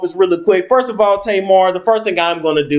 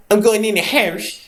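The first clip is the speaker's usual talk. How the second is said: mock fake Canadian accent; 4 semitones higher than usual. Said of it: "So that fake ass accent you have".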